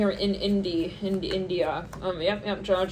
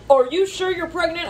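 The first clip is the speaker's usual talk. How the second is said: higher, louder incredulous question; doubtful disbelief; 8 semitones higher, 4 dB louder than usual. Retold or imitated. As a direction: ask it in playful shock. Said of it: "They're like".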